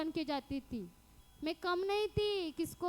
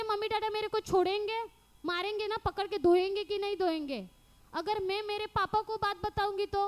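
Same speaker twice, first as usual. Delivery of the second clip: raised, firm scolding; retold stern warning; 4 semitones higher, 3 dB louder than usual. Confronting the neighbor girl, loud and stern. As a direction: lay down the law, voice up. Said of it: "ऐसा मैं direct उसको बोल दिया".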